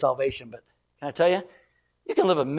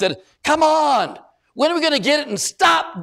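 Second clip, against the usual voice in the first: exasperated plea; 10 semitones higher, 5 dB louder than usual. Real, not acted. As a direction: drag it out in frustration. Preacher exasperated.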